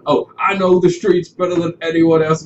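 lightly voiced sassy character; stereotype street voice. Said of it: "she's just a black stereotype".

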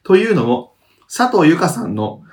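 measured reading of listener mail; letter read-aloud. Acted. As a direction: read the message out evenly.

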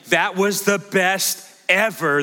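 drawn-out mock rapture over the best; imitated gushing. Quoting his bubbly family when something good happens, imitated gushing. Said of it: "heard out of Amber and now out of Reagan".

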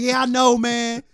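high mock sheepish thief; thief conceding. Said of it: "He's like".

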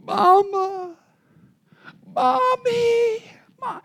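put-on high, tearful child's cry for mama. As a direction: cry out for mom like a hurting little girl. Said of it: "she began to yell out".

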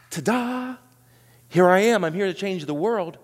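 showy ta-da announcement; mock grand entrance. Preacher mocking the expected messiah's showy arrival. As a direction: present yourself like a showman.

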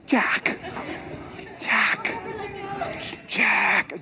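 mock plaintive calls, the middle one pitched high; Rose calling Jack. Pastor playing Rose calling to Jack in the water, mock plaintive. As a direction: call his name three times like Rose on the raft.

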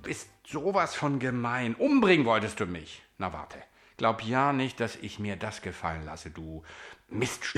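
a hammed-up angry threat, rising on Umbringen; angry mirror image. Mirror image threatening its owner, mock angry. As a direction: threaten him like a spiteful twin. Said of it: "Und es war sauer".

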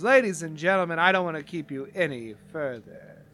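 emcee introduction with long pauses; lightly hammed announcer bringing on the star; Barry the Flirt. Barry introduces the headliner to the crowd, measured showman. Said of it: "And he says".

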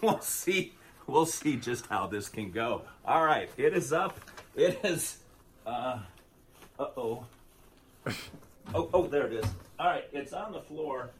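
muffled under a bag; talking with a bag over his head. Real, not acted. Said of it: "with the bag over my head".

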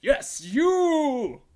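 very high, very loud knight's shout; furious yell. Acted. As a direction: scream it straight at him. Knight confronting the bard.

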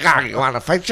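hammed-up little Irish leprechaun, laughing; cartoon Irish scrapper, half laughing; Simpsons leprechaun. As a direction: pick a fight in a mock Irish accent. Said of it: "the little leprechaun in The Simpsons".

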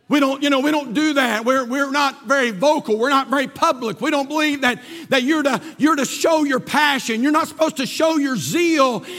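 full-voiced pulpit delivery; preaching. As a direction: press each point home to the congregation. Preaches after quiet anecdote.

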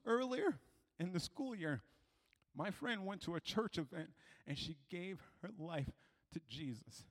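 soft, subdued retelling; re-enacted girl's hushed account; painful confiding. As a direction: confide a hurt quietly. Girl confides her painful story.

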